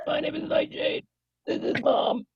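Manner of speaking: high, loud little owl voice; cute owl voice. Acted. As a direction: speak as a sweet little owl. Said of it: "I'm gonna stick with the".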